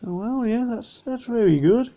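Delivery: words stretched through a yawn. Real, not acted. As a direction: talk mid-yawn, mouth wide open. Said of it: "I'm yawning".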